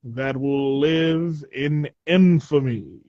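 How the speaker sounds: slow, solemn historic broadcast; old newsreel. Acted. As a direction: intone it like a wartime speech. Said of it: "Why do you sound like an old newsreel?".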